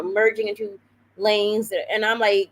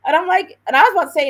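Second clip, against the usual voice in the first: laughing through words; 9 semitones higher, 6 dB louder, faster than usual. Real, not acted. Still laughing while talking.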